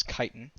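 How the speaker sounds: CHITIN said with a hard K, "KAI-tin"; insisted pronunciation. Shown as a demonstration. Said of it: "I'm telling you, it is chitin".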